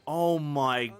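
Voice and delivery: loud and high, awestruck; amazed. Real, not acted. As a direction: gasp it out in wonder. Amazed at luxurious chest.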